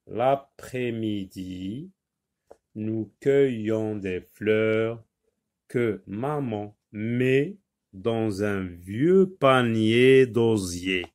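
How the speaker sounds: slow, deliberate reading of a text for pupils; careful classroom read-aloud. Shown as a demonstration. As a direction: read it slowly, word by word, for young learners. Reads the textbook text aloud.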